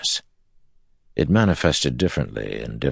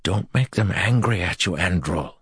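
higher, nervous warning voice; anxious young man; 5 semitones higher than usual. Acted. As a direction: warn him nervously. Evan warns Andral.

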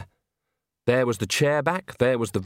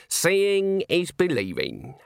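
put-on slow, higher-pitched old woman's calm; 7 semitones higher, much slower than usual. A narrator's reading. Granny answering how she got in, calm. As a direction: say it slowly and unruffled, as Granny. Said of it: "said Granny calmly".

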